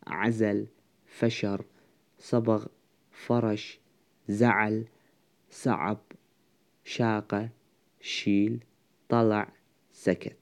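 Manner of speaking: word-by-word list reading with pauses between; pronunciation demonstration. Shown as a demonstration. Teacher pronouncing fixed roots for students, measured word-by-word demonstration. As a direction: say each root separately, evenly spaced.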